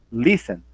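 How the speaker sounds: "Listen" with emphasis on "Lis", tailing down; stress on first syllable. Shown as a demonstration. Teacher showing where the strongest sound is, "Listen" stressed at the start. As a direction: stress the opening of "Listen", drop the rest. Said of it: "É o som mais forte, tá no início".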